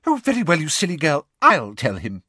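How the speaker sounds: exasperated snap, starting high; irritated, high outburst; Umbridge, snapping. A narrator's reading. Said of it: "snapped Umbridge".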